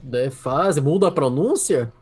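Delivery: drawn-out exasperated appeal; retold plea to make up their minds; exasperated ultimatum. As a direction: lay out both options slowly, fed up. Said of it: "Eu perguntei".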